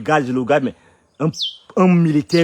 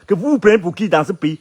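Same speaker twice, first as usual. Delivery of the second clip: retold scolding; 4 semitones higher, 4 dB louder than usual. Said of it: "je gronde ces patrons".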